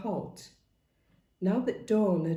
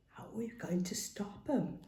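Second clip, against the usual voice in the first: hissed; 2 semitones higher, 9 dB quieter than usual. A narrator's reading. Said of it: "Charlie hissed".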